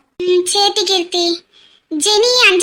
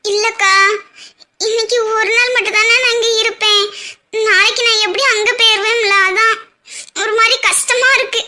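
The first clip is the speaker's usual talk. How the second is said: upset and sniffly, holding back sobs; tearful. Acted. Bride to comforting sister about leaving home tomorrow, tearful. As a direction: speak through light tears. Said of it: "எதுக்கு நீ தேவையில்லாம அழுதுட்டு இருக்க".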